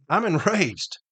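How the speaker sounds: half-laugh at your own anger; laughing enraged. Real, not acted. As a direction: laugh breaking through the word enraged.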